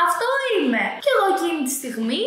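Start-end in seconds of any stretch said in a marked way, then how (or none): 0.1-0.8 mock girl's reply. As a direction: lift "Αυτό είμαι" up high, mimicking her.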